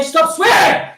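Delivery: high, loud, exasperated mock scold; escalating mimicked telling-off; scolding objectors. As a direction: imitate someone yelling a reprimand. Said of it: "And they say".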